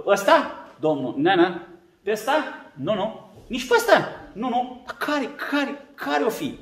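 quiet, questioning over each son; a doubtful prophet sizing up; puzzled Samuel. Acted. Samuel quietly doubts each of Jesse's sons, puzzled.

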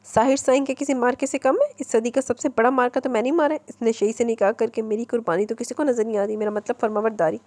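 mild complaining tone; a touch of a teenage grievance. Acted. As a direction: grumble it like a sulky daughter. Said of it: "शिकायती अंदाज में बोली".

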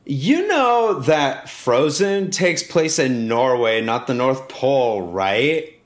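slow, pointed mock correction; annoyed. Annoyed girl correcting a performer's mistake, slow and pointed. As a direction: imitate an annoyed kid, drawing the words out. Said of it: "she's very visibly annoyed".

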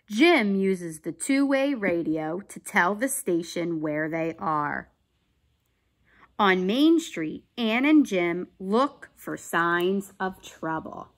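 put-on clear, emphatic children's story narration; read-aloud story. A narrator's reading. Teacher reading a police story to children, animated narration. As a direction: read it out carefully for young listeners. Reads a picture book aloud.

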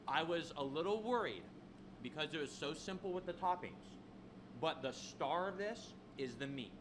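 talking while chewing a bite; words through a mouthful of burger; mouth full. Real, not acted. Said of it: "I know I'm talking with my mouth open".

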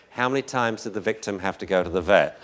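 calm, even, unhurried repeat of the question. Shown as a demonstration. Trainer asking an upset dog owner, very calm. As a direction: ask it very calmly, no pressure. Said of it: "So you just very calmly say".

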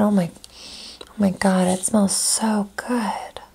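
breathy hushed sniff-and-sigh; savoring a smell. Real, not acted. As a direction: whisper it while smelling the soap. Sniffing the new soap.

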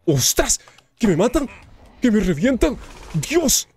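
high panicked shouting; panicking gamer. Real, not acted. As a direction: scream in panic as you die. Being killed by invaders.

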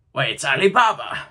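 loud, delighted cry of recognition; ecstatic exclaim. A narrator's reading. Scrooge thrilled to spot Ali Baba, ecstatic. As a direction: burst out with joy. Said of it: "Scrooge exclaimed in ecstasy".

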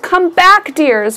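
calling out across the valleys; high on come back, falling on dears. A narrator's reading. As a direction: call to lost things far away. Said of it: "Bouse called".

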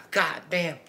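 talking through a mouthful; mouth full. Real, not acted. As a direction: say it around the pasta. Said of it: "got a mouthful of pasta".

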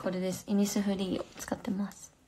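soft unvoiced whisper; whispered product name. Real, not acted. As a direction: breathe it out like a secret aside. Aside while showing lip product.

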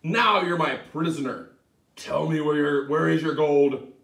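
loud, firm demand; triumphant cry. Acted. Tom catching the leprechaun, loud triumphant cry. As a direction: seize him and shout your claim. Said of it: "grabbed the sly fellow and cried".

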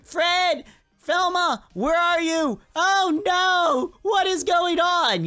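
high, drawn-out mock screams of panic; screaming grass. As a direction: wail like tiny doomed victims. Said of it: "Yes, the grass is screaming".

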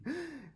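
high, short gasp; startled gasp. Acted. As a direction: gasp in worried surprise. Fish alarmed by a fast swimmer.

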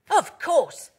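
high, loud, emphatic dog character; Alfie. A narrator's reading. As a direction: pipe up with eager certainty. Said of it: "barked Alfie".

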